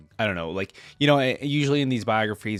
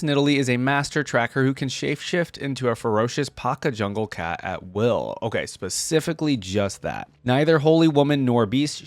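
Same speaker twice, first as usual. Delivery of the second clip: lore read in a lightly dramatic storyteller voice; story narration. A narrator's reading. Reading Nidalee's lore to viewers, gentle story narration. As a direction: read it like the opening of a legend, unhurried. Reads champion lore aloud.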